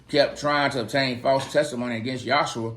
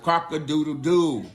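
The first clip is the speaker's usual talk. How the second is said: rooster crow; 2 semitones higher than usual. Acted. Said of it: "the rooster crowed".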